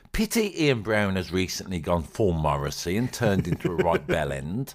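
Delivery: normal talking voice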